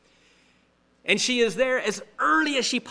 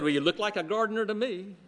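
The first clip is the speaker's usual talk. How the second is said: giggling; 3 dB quieter, faster than usual. Acted. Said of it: "she giggled and said".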